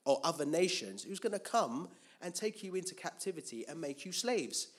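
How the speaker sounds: God warning. Acted. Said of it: "And God would always say".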